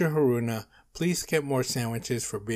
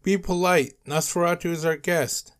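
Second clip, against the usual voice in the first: high, loud scolding; yelling; 7 semitones higher, 4 dB louder than usual. A narrator's reading. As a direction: yell a reprimand at the kids. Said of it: "Mister Crocodile yelled".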